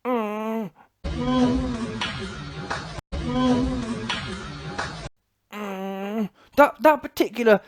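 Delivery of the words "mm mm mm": soft hurt moans from the floor; mock pained groans. Mimicking Fury knocked down, soft pained groans. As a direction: moan like a floored boxer. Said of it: "lays on the floor and goes".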